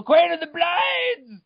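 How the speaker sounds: booming, slow title call; hammed-up epic title shout; dramatic shout. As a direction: announce it like an epic trailer. Dramatic title in lore reading.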